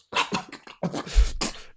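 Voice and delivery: mimed wet choking sputter; choking gurgle. Acted. Arrow through mouth, man drops.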